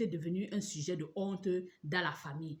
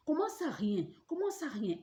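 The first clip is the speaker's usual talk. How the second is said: lightly voiced neighbours; 8 semitones higher than usual. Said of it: "les gens ont demandé".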